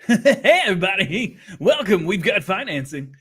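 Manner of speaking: loud, eager car lot greeting; used car salesman. Retold or imitated. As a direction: hype up the financing deal. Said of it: "that one's like".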